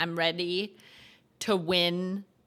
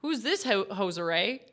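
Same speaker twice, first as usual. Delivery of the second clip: trying out a light Canadian voice; a hint of mock Canadian; Canadian accent; 4 dB quieter than usual. Shown as a demonstration. Streamer demonstrating for Canadians in the chat, light Canadian accent. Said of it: "Do you speak like this".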